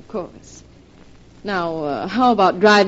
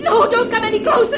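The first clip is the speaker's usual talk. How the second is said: high, crying in terror; tearful desperate plea; terrified; 12 semitones higher, 4 dB louder than usual. Acted. Threatened at the cliff edge.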